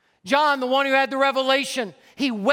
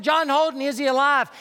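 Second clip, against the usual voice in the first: acting out a distant hail; retold holler; 3 semitones higher than usual. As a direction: call the anxious question out into fog. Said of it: "He hollered, he said".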